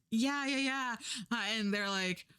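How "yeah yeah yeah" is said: dismissive. Retold or imitated.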